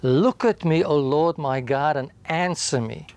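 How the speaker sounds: mild retold outburst, fist on the podium; the psalmist confronting God, a hint of demand; demanding David. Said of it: "David slams his fist on the prosecutor's podium".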